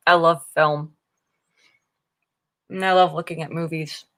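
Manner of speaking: talking with a mouth full. Real, not acted. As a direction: speak through a mouthful of muffin. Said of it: "I'm talking with my mouth full".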